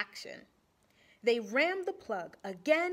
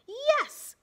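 loud high joyful yes; shouting; 13 semitones higher, 8 dB louder than usual. A narrator's reading. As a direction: shout it with joy. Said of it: "shouted Miss Fizzle".

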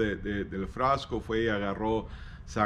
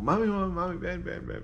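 put-on urgent child calling; 7 semitones higher, 3 dB quieter than usual. Worried boy calling mother.

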